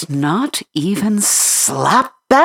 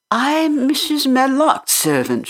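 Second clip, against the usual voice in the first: high, firm Yorkshire maid; stoutly; 10 semitones higher than usual. Acted. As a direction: stand your ground, plainly. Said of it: "she said stoutly".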